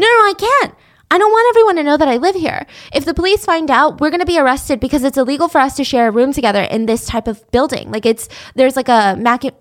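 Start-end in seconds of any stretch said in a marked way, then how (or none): 0.0-7.9 high, louder and fast frantic pleading; imitating a scared girlfriend refusing police; frightened girlfriend explaining to a friend on the phone; panicked refusal.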